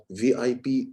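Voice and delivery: lightly voiced from the mouth; weak mouth voice. Shown as a demonstration. Coach contrasting mouth and throat, weak take. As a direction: say it weakly, from the mouth only. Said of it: "it sounds weak".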